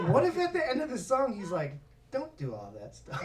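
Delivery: laughing what-if. Retold or imitated. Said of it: "I was like".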